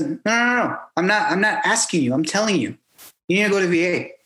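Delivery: light imitation of his accent, insistent; a hint of his accent, not taking no; Hernandez. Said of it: "in his accent".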